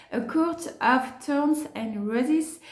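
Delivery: French speaker's careful, slow English accent; showy English accent. Shown as a demonstration. Announcing the English title as a joke, showy English accent. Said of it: "attention, magnifique accent anglais qui arrive".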